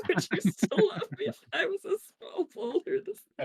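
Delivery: laughing through the words. Real, not acted. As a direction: giggle while quoting it. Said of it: "I want that on a t-shirt".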